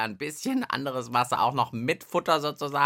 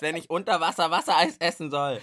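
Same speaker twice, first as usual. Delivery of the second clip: laughing. Real, not acted. Laughs at messy underwater ice test.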